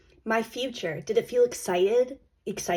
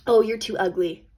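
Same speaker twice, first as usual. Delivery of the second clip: mean ego voice; 5 dB louder than usual. Retold or imitated. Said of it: "dumbass ego thought".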